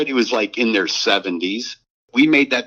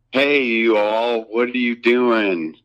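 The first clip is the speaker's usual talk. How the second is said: Bugs Hardaway drawl. Retold or imitated. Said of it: "he basically was talking like this".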